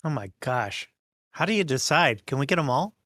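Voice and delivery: usual speaking voice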